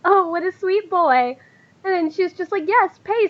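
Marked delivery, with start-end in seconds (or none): 0.0-1.4 slow, higher-pitched cooing; chuckling fondness. Acted. Lady chuckles at Morin's question, fondly amused. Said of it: "just kinda chuckles and she goes". 2.7-3.3 high-pitched, teasing confirmation; playful teasing. Acted. Lady taps Morin's snout, playfully teasing.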